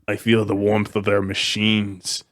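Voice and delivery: lightly voiced hive mind, slow and drawn out; slow, level creature chant with pauses. Host quotes the bugs from the book's prologue, lightly voiced slow hive mind. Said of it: "they're like a hive mind and everything".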